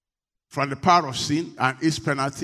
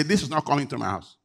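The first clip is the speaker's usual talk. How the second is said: fast, firm no to what isn't sent; strong refusal, said fast; 2 semitones lower than usual. Shown as a demonstration. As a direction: refuse it flatly and quickly. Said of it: "you need to be strong and say".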